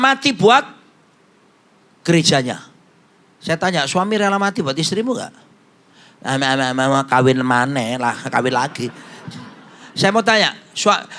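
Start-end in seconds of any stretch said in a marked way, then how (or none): 6.2-8.9 lower, whining husband's plea; mock husband whine. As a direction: whine it like a lazy husband dodging. Husband begging to remarry, mocked.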